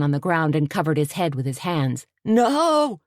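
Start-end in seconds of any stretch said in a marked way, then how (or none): 2.2-3.0 a high anguished cry; sobbing cry. A narrator's reading. Terrified man on the ground at firecrackers, sobbing. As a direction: break down at the bang. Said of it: "he sobbed".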